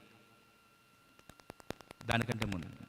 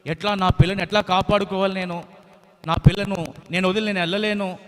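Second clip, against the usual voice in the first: mock crying mother; 4 semitones higher, 5 dB louder than usual. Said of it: "చాలా ఏడుస్తా ఉంది".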